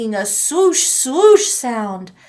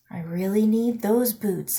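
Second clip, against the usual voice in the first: reassuring; 2 semitones lower, 5 dB quieter than usual. Acted. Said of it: "I said reassuringly to the twins".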